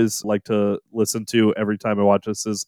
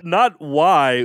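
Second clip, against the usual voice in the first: "why" drawn out and raised; stress on why; 4 semitones higher than usual. Shown as a demonstration. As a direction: lean slowly on "why". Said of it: "Is the line delivery".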